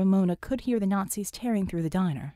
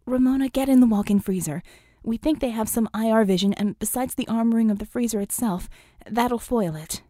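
urgent order; 2 semitones higher, 5 dB louder than usual. Acted. Vicky urgently orders into freezer.

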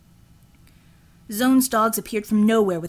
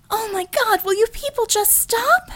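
very high, louder exasperated plea; fed up, stop them all; 14 semitones higher, 4 dB louder than usual. Acted. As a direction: Einhorn interrupting the fight, exasperated. Einhorn's exasperated voice.

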